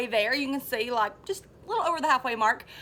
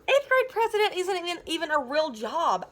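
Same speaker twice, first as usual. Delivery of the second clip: seething; 3 semitones higher than usual. Acted. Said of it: "I seethed".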